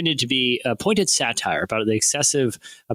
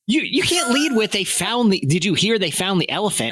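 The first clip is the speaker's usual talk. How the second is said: mock exasperation; 7 semitones higher than usual. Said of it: "I was like".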